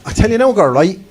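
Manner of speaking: put-on high, loud gossipy Cork girl planning her night out; high, loud Cork woman getting ready for Saturday night. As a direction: sing it out like a Cork woman rattling off her list. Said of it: "They get up in the morning".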